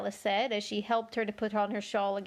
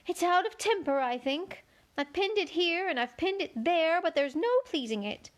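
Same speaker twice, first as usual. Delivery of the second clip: high, fussy White Queen; 6 semitones higher than usual. A narrator's reading. Queen corrects Alice in a high fussy voice. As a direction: pitch the Queen up high and flustered.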